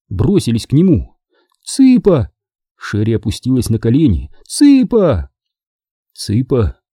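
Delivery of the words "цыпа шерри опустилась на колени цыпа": urgent calling. Acted. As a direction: call him urgently. Calling to fallen boy.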